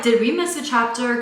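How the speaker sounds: mock puzzled follower; confused followers. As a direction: play the baffled fans. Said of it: "People were like".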